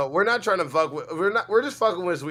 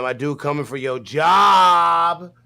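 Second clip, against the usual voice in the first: drawn-out taunt; 7 dB louder, much slower than usual. Real, not acted. Taunting Sweet Tea.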